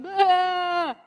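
loud mock sheep bleat. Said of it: "leave their sheep out there on their back going".

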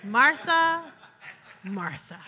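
a loving call that falls to a near hush; tender rebuke. Shown as a demonstration. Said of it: "Don't you think that's how he said it?".

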